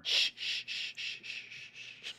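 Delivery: soft unvoiced shushing. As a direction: hush them gently. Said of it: "Grant puts out hand and goes".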